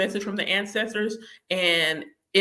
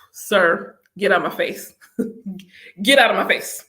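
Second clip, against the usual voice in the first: mock shoo; 5 dB louder than usual. Shooing him off.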